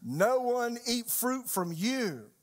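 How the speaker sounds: slow, high-pitched pronouncement; solemn curse. Acted. Jesus cursing a fig tree, solemn curse. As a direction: draw out each word like a sentence passed on it.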